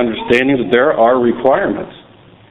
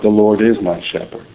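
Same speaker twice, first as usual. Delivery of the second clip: weight on "is", falling to the end; stress on IS; 3 semitones lower than usual. Shown as a demonstration. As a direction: lean on "is" as present tense. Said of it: "Present tense".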